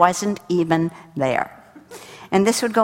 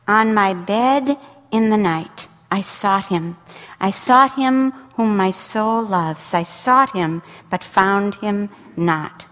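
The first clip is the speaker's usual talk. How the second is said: dramatic scripture reading; slower than usual. Acted. Reads Song of Songs with feeling.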